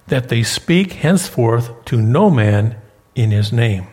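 measured pulpit reading of the verse; scripture reading. Acted. Pastor reading Acts to the congregation, measured and deliberate.

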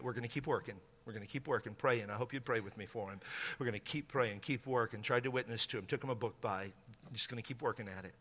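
low, very soft confiding voice; hushed, low-pitched aside to listeners; quiet resolve. Real, not acted. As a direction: drop the volume and confide it humbly. Confiding hope for unsaved friend.

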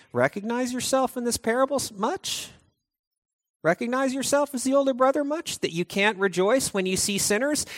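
teasing, knowing sarcasm; sarcastic jab. Acted. Jesus needling the Pharisees, sarcastic. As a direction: needle them with a smirk. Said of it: "Jesus is kinda looking at the Pharisees saying".

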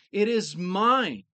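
slow, MINE leaned on; underlined mine. Shown as a demonstration. Preacher voicing Jesus's claim, slow with MINE stressed. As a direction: say "mine" as if in all caps. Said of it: "Jesus is underlining that word".

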